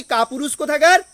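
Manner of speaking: mock scornful jab, rising at the end; Lady Macbeth's taunt, lightly acted. Teacher voicing Lady Macbeth taunting her husband, mild scorn. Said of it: "যেমনি কাপুরুষ বললো".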